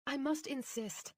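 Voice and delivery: high, slow and firm; insistent doctor. A narrator's reading. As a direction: press it slowly, insisting. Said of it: "she said".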